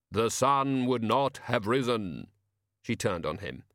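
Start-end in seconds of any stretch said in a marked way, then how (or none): 0.1-2.3 slow, deliberate voice of Death; grim reaper voice. Acted. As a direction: state it slowly as Death. Death repeats line.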